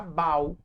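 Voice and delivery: bau as one syllable, rhyming with "pau"; unaccented misreading. Shown as a demonstration. Teacher showing the missing accent, bau as one syllable. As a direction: glide bau together without stressing the U. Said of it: "se eu não acentuar".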